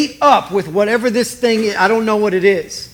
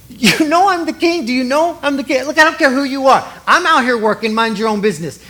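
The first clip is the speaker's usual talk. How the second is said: higher-pitched mock indignation; indignant exchange; 5 semitones higher than usual. Preacher acts out king and working woman arguing, mock indignant. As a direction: act out an affronted back-and-forth.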